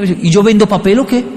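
mock-indignant dad's question; lightly acted sarcasm; ironic retort. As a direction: toss it back sarcastically. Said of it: "se lo digo con ironía".

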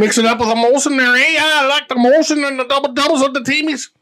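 cartoonish Canadian-Minnesota twang; Canadian accent sliding into Minnesota. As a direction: overdo the Canadian till it turns Minnesotan. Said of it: "I went Minnesota there".

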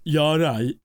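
loud put-on Scouse greeting; broad northern English, aiming near Scouse; Scouse-like northern accent. Shown as a demonstration. Listing British accents actors do, loud Scousey northern. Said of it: "kind of a Scousey thing".

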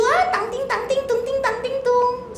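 put-on high, soft toddler-play jingle; playful singsong babble. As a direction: lilt nonsense syllables as if amusing a baby. Playful babble over cute toddler.

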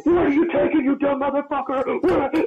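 very high, laughing mock scream; laughing yell. Trainer screaming at the kid, high and laughing. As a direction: shriek it while cracking up. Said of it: "I'm just screaming at him".

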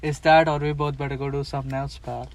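Robert De Niro impression. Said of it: "Then Robert says".

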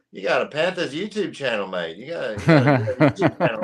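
teasing Australian mate; Australian accent. Retold or imitated. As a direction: impersonate an Australian coworker ribbing you. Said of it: "we have an Australian guy in my newsroom".

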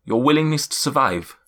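put-on cloud giant in a light German accent; grand old giant, a hint of German in every word; a lightly German-accented giant sizing up the heroes. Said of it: "I'm gonna break accent".

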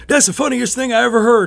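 high, amused caller voice. Retold or imitated. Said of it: "this guy's like".

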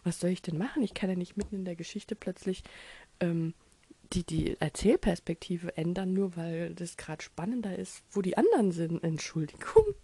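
loud, laughing exasperated defense. Retold or imitated. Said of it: "Und da hab ich gesagt".

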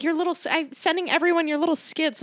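high-pitched mock mom voice; belittling mom. Retelling mom's remark on the skits, belittling high voice.

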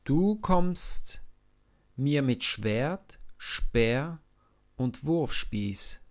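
loud, high, slow and fearless; David's bold call to the giant. Acted. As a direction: call across the valley. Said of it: "ruft er".

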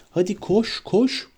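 Harry urging Hermione to flee; urgent shout. A narrator's reading. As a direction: push her to run, rising each time. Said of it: "diye bağırdı Hermione'ye".

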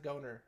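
Goner with a long O, as in "go"; long-o pronunciation. Shown as a demonstration. Host unsure of a game title, Goner with long O. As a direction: say Goner as "GO-ner", questioning. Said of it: "So I'm trying to, like, pronounce".

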